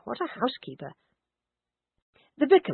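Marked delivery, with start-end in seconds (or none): 0.0-0.9 murmured. Acted. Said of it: "murmured John".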